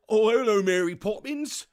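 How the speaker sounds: a bad Cockney accent like Dick Van Dyke; dodgy Dick Van Dyke. Mimicking Dick Van Dyke's Cockney for the stream chat. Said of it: "with the dodgy accent".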